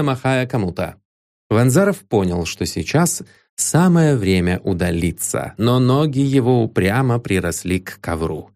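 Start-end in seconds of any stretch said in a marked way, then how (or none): none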